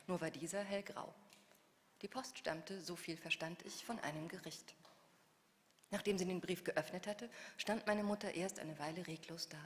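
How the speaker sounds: measured reading of her own novel; literary reading. A narrator's reading. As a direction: read the scene aloud, composed. Author reads novel excerpt.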